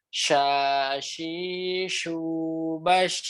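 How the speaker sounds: "Sha, shi, shu, bash" each sh spread across the mouth; shin with vowels demo. Shown as a demonstration. Teacher demonstrating shin drills for the class. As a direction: model the shin with fatha, kasra, damma and sukun. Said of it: "Saya ini contohin sekali dulu".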